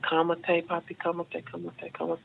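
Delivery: imitating a laid-back coach, softly; calm and chill. Relaxed coach soothing his student in a retold story, calm and soft. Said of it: "real, like, slow and stuff".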